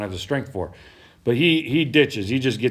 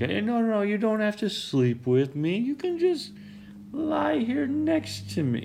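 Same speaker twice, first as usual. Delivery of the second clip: coaxing seductress; 12 semitones higher than usual. Acted. Wife trying to seduce Joseph, high coaxing voice. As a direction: coax in a put-on high voice, slowing at the end.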